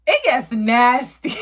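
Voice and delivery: cracking up, voice high; giggling at her own story; laughing. Real, not acted. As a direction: laugh through the words. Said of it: "this story gets so fucking nasty".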